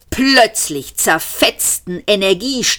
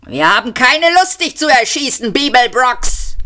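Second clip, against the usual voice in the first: a touch of a raised shout, higher; mild bellow; 7 semitones higher than usual. A narrator's reading. Armed cop calls across the hall to Bibelbrox, mildly raised. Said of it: "brüllte die Gestalt".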